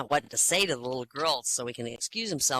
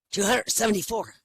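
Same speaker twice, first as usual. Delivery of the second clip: dim patient answer; 6 semitones higher, 6 dB louder than usual. Acted. Confused patient answers doctor.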